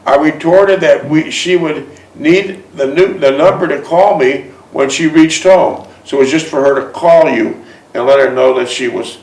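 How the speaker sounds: measured read-aloud storytelling; story narration. A narrator's reading. Man reads his romance memoir aloud to a listener, measured narration. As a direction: read it like a personal memoir, phrase by phrase.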